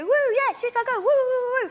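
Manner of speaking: high, loud American cheering; excited whooping. Retold or imitated. Comic mimics Chicago locals going nuts. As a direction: whoop it up like a crowd gone nuts. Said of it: "They go".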